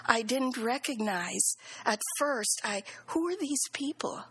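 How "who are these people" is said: high-pitched puzzled question; retold bewilderment. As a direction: re-enact not knowing who anyone is. Retold confusion at unrecognized visitors.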